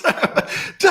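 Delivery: high breathy cheering yell; mock crowd cheer. Whole party greeting the musician, cheering shout.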